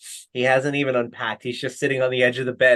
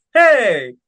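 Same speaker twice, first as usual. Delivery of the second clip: high, loud background yell; shouted heckle; 8 semitones higher, 9 dB louder than usual. Retold or imitated. Guy in the background after a glass is thrown, shouting. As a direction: imitate a bystander calling out, pitched up. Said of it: "this guy in the background go".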